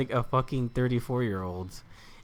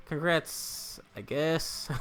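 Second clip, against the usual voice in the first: Congrats, I guess with rising guess; 2 semitones higher, 5 dB quieter, much slower than usual. Shown as a demonstration.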